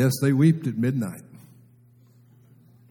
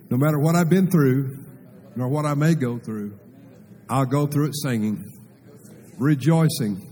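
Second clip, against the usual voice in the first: firm, rising confession of faith; call-and-response declaration; declaration for the congregation to repeat; 2 semitones higher than usual. Shown as a demonstration. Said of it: "Just say it".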